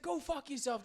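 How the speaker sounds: high mock yell of a furious driver; mimicking a Revere driver's high, raging scream; angry old guy. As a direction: imitate the Jeep driver screaming. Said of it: "he's like".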